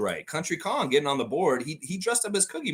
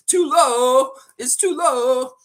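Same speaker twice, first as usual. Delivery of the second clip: shouted high and loud, drawn out; loud high call; 14 semitones higher, 8 dB louder, much slower than usual. Real, not acted. Calling out too low.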